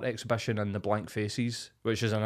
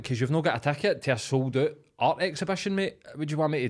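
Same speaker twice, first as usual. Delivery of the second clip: retold telling-off; 6 semitones higher, 4 dB louder than usual. Retold argument with drunk guest.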